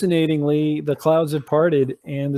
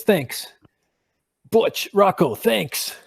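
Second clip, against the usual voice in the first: higher, chirpy thanks; little eagle thanks; 4 semitones higher, slower than usual. Acted. Tiny eagle thanking the two big eagles, chirpy and higher. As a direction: cheerfully thank the big birds.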